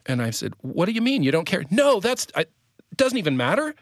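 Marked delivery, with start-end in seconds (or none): 0.6-1.6 high, incredulous retold question; baffled protest. Husband replaying his reply to his wife, high-pitched bafflement. 1.7-3.8 high-pitched mock insistence; flustered denials in a put-on high voice; imitating upset wife. Husband acting out his wife in their quarrel, high flustered protest.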